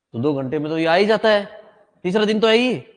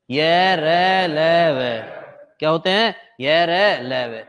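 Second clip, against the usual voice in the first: slow recitation; 5 dB louder, slower than usual. Shown as a demonstration. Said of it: "बताओ कौन कौन से हैं".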